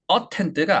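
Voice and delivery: "attend" with a full, strong 어 at the start; stressed first vowel. Shown as a demonstration. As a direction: wrongly hit the first syllable of "attend". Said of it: "강세가 없는 몸을 어". ("attend"의 첫 모음 어를 강하게)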